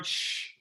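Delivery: soft imitated shush; hissed shh. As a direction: hush from the row in front. Cinema audience shushing.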